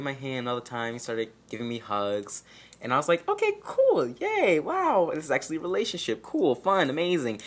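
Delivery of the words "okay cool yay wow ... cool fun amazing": squealing, high-pitched mock glee; hammed-up high yay and wow; fake excitement. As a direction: gush like an overjoyed teen, over the top. Fake excitement about relationship.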